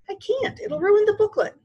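high-pitched, distressed wail; upset girl. A narrator's reading. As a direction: protest as if near tears. Upset Sheila refusing.

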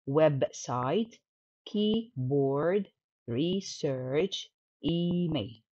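each word in two beats: web-site, key-board, re-search, e-mail; split into syllables. Shown as a demonstration. Teacher giving examples of two syllables, words like "keyboard" split in two. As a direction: break "website", "keyboard", "research", "email" between syllables. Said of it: "كلمات عندها two syllables".

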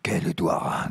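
"Quel Édouard?" whispered, no voice; whispered question. Acted. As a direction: hush it, breath only. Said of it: "Là, je me suis trompé, c'était à voix basse".

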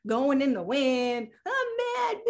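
half-hearted mock whine; limp, drifting mock complaint. Shown as a demonstration. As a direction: drift through it like tumbleweed, limp and unfocused. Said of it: "In a very different way".

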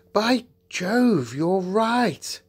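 high, loud exclamation of wonder; acted astonishment; amazed agreement. A narrator's reading. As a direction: exclaim it as the truth dawns. Peter discovers the wood.

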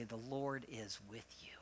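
soft, limp mumble, barely committing; half-hearted mumble. Shown as a demonstration. Pastor showing the congregation's weak reply, mumbled softly. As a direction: mutter it like you don't mean it. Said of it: "No, you gotta say it like you mean it".

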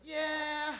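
high, drawn-out non-refusal; reluctant Bay Area no. Acted. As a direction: say yes while meaning no. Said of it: "someone from the Bay Area saying no".

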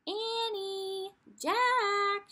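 high, loud call from far away. A narrator's reading. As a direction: shout their names across the yard. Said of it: "she called".

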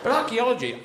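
ordinary delivery

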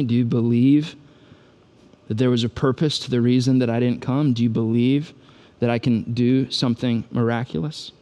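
gentle, intimate, measured questions; close and calm. Acted. Jesus real close to Martha, calmly pressing her. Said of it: "gets real close to her and says".

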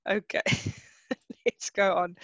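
laughter again breaks into the words; second try at moving on, still giggling; still laughing. Real, not acted. Teacher to class, still laughing as she tries to continue. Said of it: "I'm laughing so much now".

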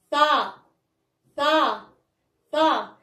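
فا as "fa", opened on the "a"; fatha syllable. Shown as a demonstration. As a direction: model فا as one clear syllable "fa". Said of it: "نفتحو الفيم ديالنا".

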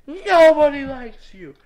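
slow, emphatic frustrated outburst; forceful exasperated rejection. Real, not acted. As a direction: hit the first word hard and drag it out. Rant at program, forceful repeat.

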